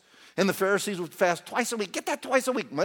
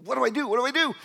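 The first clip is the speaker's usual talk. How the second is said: mock nail-biting worry; 2 semitones lower, faster than usual. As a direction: start under the breath, then work yourself up. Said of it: "biting his nails, thinking".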